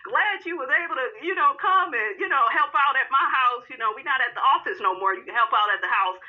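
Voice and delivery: high, sweet flirting voice; flirty hostess. Pretend. Wife flirting with another man in front of husband. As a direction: coo at the new man. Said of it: "He needs to see you serving him".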